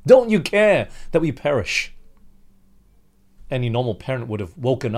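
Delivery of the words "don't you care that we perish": cried out. Retold or imitated. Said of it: "they cried out to Jesus".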